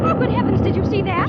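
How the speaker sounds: loud, high startled exclamation; startled gasp. Acted. Kismine reacting to a blast outside, startled. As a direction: caught off guard by the blast. Explosion seen from window.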